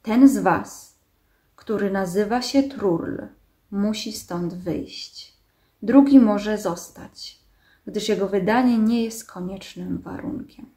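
slow, measured machine pronouncement; nasal steely honking. A narrator's reading. Machine demanding that Trurl come out, nasal steely honk. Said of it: "nosowo brzmiące, do stalowego gęgania podobne".

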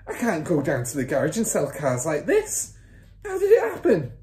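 dismayed complaint climbing to a high cry; protest, then cry out loudly; father's yell. A narrator's reading. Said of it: "yelled the father".

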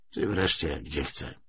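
plain reading voice

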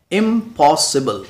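"इम्पॉसिबल" slowly as IM, POS, SI-BLE; split into syllables. Shown as a demonstration. Teacher shows learners four syllables, sounded out slowly. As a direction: break "इम्पॉसिबल" into beats. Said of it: "break करते हैं, तोड़ते हैं".

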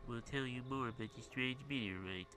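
strained character voice, lightly put on; Pokey. Neighbor kid promises news of the meteorite, strained put-on voice. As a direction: voice a kid in a way that hurts to keep up. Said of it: "I can't do that forever".

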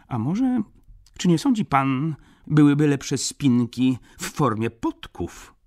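high, loud, eager baron; excitable gentleman with a sudden idea; eccentric baron customer. A narrator's reading. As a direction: pitch it up like a fussy customer. Baron fussing over his purchase.

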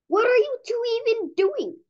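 squeaky startled hamster; surprised hamster. Acted. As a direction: pop in high and baffled. Hamster barges in.

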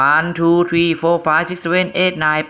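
very slow, drawn-out counting. Shown as a demonstration. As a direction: count each number out slowly. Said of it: "เราจะให้จังหวะในการนับ".

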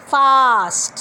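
ফাস্ট with a clear f sound; fast demo. Shown as a demonstration. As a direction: say ফাস্ট, lips on f. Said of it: "প্রথমটা হচ্ছে ফা sound". (ফা সাউন্ডে ফাস্ট)

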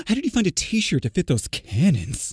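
a light hint of a sassy queen; lightly fawning over uncle's arms. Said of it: "act like a sassy queen".

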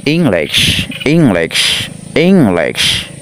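"English" said deliberately, falling at the end; model pronunciation. Shown as a demonstration. Teacher leads pupils reading English along, careful model pronunciation. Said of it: "nào chúng ta đọc theo ha".

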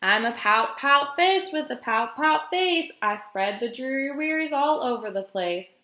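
measured, lilting picture-book read; reading to children. A narrator's reading. Guest reader reading a fish story to children, storytime lilt. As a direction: read the rhyme out for little listeners.

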